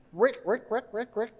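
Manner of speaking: quiet clicking rick noises imitating spit; mock the hawking sound softly; mimicked spitting sound. Pastor imitating Jesus spitting, soft clicky noises. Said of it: "first it's this".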